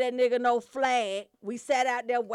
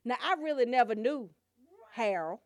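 mock pastor; 3 semitones lower than usual. Shown as a demonstration. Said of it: "Rika, do this one".

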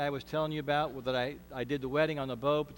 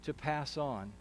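prayer. Acted. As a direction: pray it humbly, unhurried. Leads a prayer.

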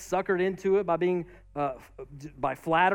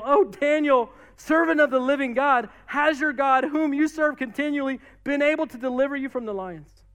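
high, raised-voice plea in mild anguish; anguished cry; 6 semitones higher, 4 dB louder than usual. Acted. Distressed king calling to his friend in the den, acted anguish. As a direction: call out as if desperate for an answer. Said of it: "he cried out in a tone of anguish".

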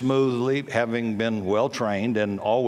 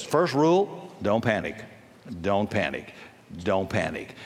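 calm command; 4 semitones lower than usual. Retold or imitated. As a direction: repeat it, fading to a hush. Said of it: "the person in control says".

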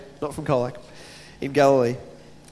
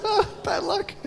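mock sympathy; 14 semitones higher, 6 dB quieter, slower than usual. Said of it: "like, going".

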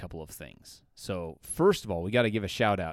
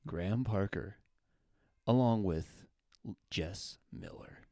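public radio host; slower than usual. Pretend. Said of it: "Okay, I can't do that anymore".

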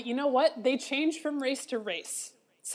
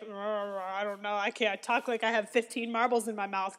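deadpan driver impression; 3 semitones lower, 3 dB quieter than usual. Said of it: "he has that very deadpan".

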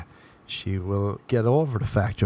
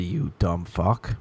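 slow, lower, under the breath; low muttered insult; 4 semitones lower, 4 dB quieter, slower than usual. Retold or imitated. Comic insults the arguer, low and slow. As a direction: drop it as a low aside. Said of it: "You'd be like".

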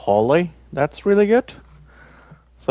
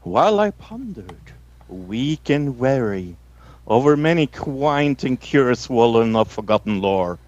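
spooky poem recital. Acted. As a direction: recite it like a horror host, lingering on words.

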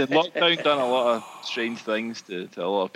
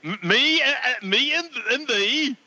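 higher, stumbling bingo call; bingo caller; 8 semitones higher than usual. Shown as a demonstration. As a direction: call it out to the hall. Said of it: "What about me and thee, Mikey?".

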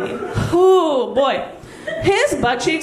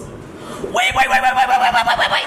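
squealing like a stuck pig; 9 semitones higher than usual. Retold or imitated. Comedian imitates her partner squealing mid-act. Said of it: "Like a stuck pig".

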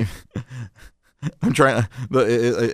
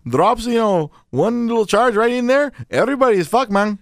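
put-on Mexican-accented contractor warning the troopers; light mock Mexican accent; 2 semitones higher than usual. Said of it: "your Mexican sounds like Al Pacino's Cuban".

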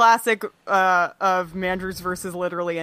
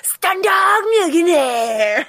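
slow, harsh stage whisper, higher; 7 semitones higher, much slower than usual. Shown as a demonstration. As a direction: hiss the name slowly, overexcited. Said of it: "stage whispers".

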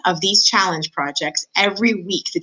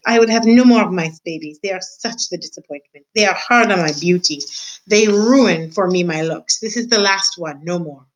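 French proclamation. Acted. Antoinette proclaims from her bed, French-accented decree. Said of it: "proclaimed Antoinette".

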